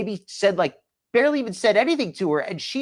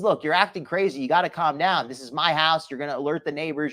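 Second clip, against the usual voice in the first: lower, understated reasoning voice; mild calming-down; 5 semitones lower than usual. Retold or imitated. Commentator voicing man calming a frantic woman, mildly reasoning. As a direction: imitate someone trying to settle a person down, pitched low.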